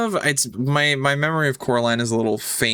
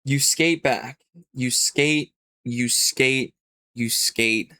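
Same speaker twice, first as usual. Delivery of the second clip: suspenseful narration, repeated phrases spaced out; game master scene-setting. Acted. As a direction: draw the journey out beat by beat.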